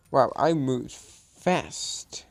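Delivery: whisper. Real, not acted. Surprised at own quick move.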